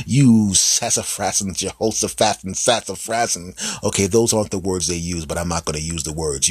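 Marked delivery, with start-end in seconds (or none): 0.1-3.4 mock cursing. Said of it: "You can hear them cursing you out".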